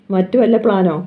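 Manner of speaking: a touch of shock on വല്ല, eyes wide; startled question. Acted. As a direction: echo the words back in mild disbelief. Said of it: "Shirley കണ്ണുമിഴിച്ചു". (ഞെട്ടലോടെയുള്ള ചോദ്യം)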